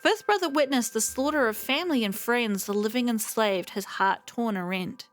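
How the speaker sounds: measured storytelling read of a lament; poem reading. Acted. Streamer reading the Foxian lament aloud, in measured poem recitation. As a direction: recite it like an old ballad.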